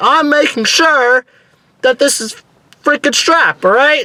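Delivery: mock anxious yell pitched very high. Retelling answering someone who said stop pulling the strap, retelling nervous yelling. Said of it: "So I'm yelling for no reason because I was nervous".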